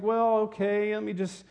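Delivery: put-on weary sigh sinking into indifference; mock yawning boredom. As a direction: act bored by something already familiar. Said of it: "kinda yawn".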